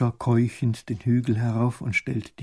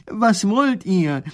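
high, loud and slow shout down a hole; calling down; 9 semitones higher, 7 dB louder, much slower than usual. Acted. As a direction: call down into the dark. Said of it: "Er ruft hinunter".

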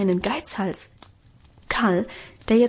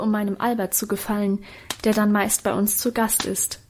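plain reading voice

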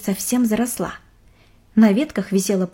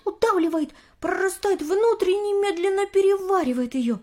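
excited nerd; 6 semitones higher than usual. Acted. Nerdy Nick explains fungi.

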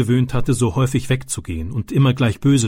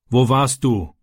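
irritated; slower than usual. Acted. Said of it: "fragte sein Vater gereizt".

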